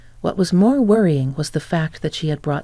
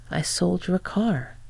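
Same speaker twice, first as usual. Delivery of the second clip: slow, softer, utterly unbothered; nonchalant; 4 dB quieter, slower than usual. Retold or imitated. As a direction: drop it casually, like it's nothing. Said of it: "Vivian said that very nonchalantly".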